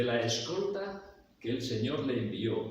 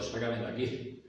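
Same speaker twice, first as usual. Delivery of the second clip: building from plain to a louder, higher cry; desperate plea; 4 semitones higher, 5 dB louder than usual. Pretend. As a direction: beg to be rescued, rising in panic. Imagined plea of desperate prisoner. (súplica desesperada que va subiendo hasta gritar)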